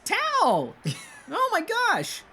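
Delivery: very high, thrilled squeal of recognition; excited twin brother. Acted. Otto to Cyrus on seeing little brother, high excitement. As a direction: squeal it like a goofy soldier finding his brother. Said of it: "Otto elbows Cyrus and goes".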